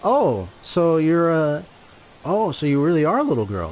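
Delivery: retelling a measured reprimand without screaming; not screaming. Retold or imitated. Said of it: "when I said it like that, that wasn't even a scream".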